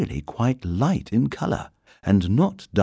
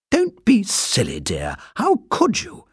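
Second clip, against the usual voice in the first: higher, lightly dismissive wife; Mrs Brown voice; 12 semitones higher than usual. Acted. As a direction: brush him off lightly. Mrs Brown dismissing her husband.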